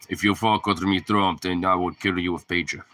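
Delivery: light pseudo-Russian accent, lightly voiced. A hint of a thick Russian accent. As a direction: Netanyahu threatening Trump in a mock Russian accent. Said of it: "like, a Russian accent".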